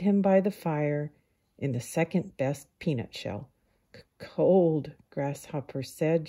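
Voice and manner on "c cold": shivering. Acted.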